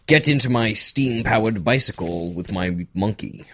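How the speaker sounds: whimsical Victorian British gent; lightly done British old-timer; mock British accent. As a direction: spin a silly British yarn about the old days.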